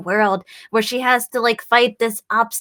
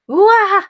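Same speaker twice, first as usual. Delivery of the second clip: cat yowl; 8 semitones higher, 6 dB louder than usual. Pretend. Cat scaring off intruder.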